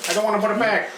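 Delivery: put-on whiny New York accent. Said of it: "Do you suddenly have a New York accent?".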